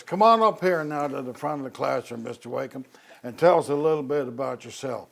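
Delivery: a hint of Southern Virginian drawl, calling him up. Nun teacher calling shy boy to front, hint of Southern Virginian drawl. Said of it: "very distinctive Southern Virginian drawl".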